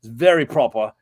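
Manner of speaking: proper, serious Queen's English; upper-class English accent. Shown as a demonstration. Describing a very proper friend, in upper-class English accent. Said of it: "that's like an upper class accent".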